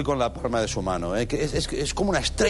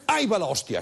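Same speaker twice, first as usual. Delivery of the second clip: mock Basque exclamation, starting high; Basque impression; 6 semitones higher than usual. Comic turning the oath into a Basque, mock Basque outburst. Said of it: "Este es un vasco ya".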